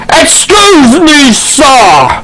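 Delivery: high, drawn-out rat voice. Acted. Rat calls the player over, in a high voice. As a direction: pitch it up and stretch it out. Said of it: "one of them says in a high".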